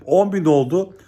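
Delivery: calling out the index milestone to followers; shouting it out. Shown as a demonstration. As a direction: announce it like a town crier. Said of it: "bağıra bağıra her gün söyleyeceğim".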